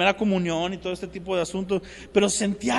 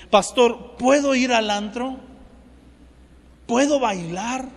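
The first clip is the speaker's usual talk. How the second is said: pleading youth; 4 semitones higher, 4 dB louder, slower than usual. Retold or imitated. Youths asking pastor permission.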